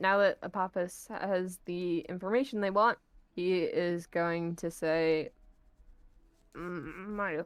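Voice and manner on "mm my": sinister, dark frog-puppet voice. Voicing a character in a roleplay game: dark Kermit voice. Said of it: "that was like a, a dark Kermit voice".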